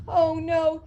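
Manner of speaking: high frightened cry of no; panicked cry. Acted. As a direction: cry out in sudden terror. Assault about to begin.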